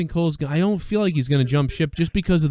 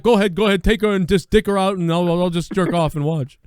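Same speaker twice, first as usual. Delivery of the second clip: mock eager pleading; 4 semitones higher, 3 dB louder than usual. Acting out Sean's eager reply.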